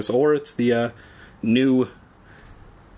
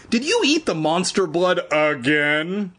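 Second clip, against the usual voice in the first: mild anger; 6 semitones higher than usual. Acted.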